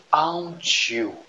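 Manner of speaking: slow, drawn-out English with a French accent. Real, not acted. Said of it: "excusez mon accent anglais". (anglais lent avec accent français)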